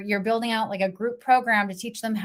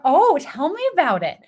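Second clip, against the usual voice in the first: eager aunt voice; 7 semitones higher, 6 dB louder than usual. Retold or imitated. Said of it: "She's gonna wanna know".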